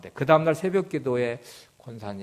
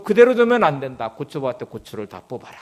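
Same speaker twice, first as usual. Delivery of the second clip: a firm, loud divine command, then dropping; insistent command that sinks to a hush; commanding inner voice; 6 dB louder than usual. Retold or imitated. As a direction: urge it like an order from above. God's command pressing on pastor.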